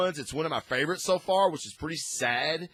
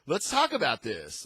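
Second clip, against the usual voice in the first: put-on accidental Scottish accent; 2 semitones higher than usual. Rocket talking Drax out of it, light accidental Scottish accent. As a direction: slip slightly into a Scottish lilt. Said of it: "a Scottish accent or something".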